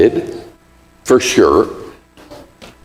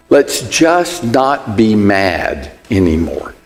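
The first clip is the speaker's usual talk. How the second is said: evasive apology, slower; 4 semitones lower, slower than usual. Retold or imitated. Spouse dodging the fight, slow coaxing plea. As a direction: stretch it out, let's just move on. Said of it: "It goes something like this".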